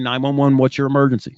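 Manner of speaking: a composed 911 dispatcher picking up; calm operator. Retold or imitated. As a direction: answer the call like nothing rattles you. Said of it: "they're very calmly saying".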